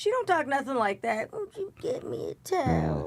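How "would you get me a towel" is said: put-on slow, sing-song elderly woman's voice. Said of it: "you said talking slow like that".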